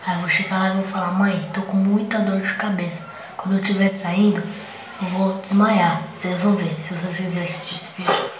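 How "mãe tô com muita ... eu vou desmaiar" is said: faking a headache. Pretend. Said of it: "fingindo que eu desmaiei".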